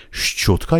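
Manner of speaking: "شچوتکا" with a distinct hard ch; overly thick shch. Shown as a demonstration. Teacher voicing the baffled listener's echo, hard sh-ch. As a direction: sound both consonants fully at the start of "شچوتکا". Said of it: "خیلی غلیظ تلفظش کنید".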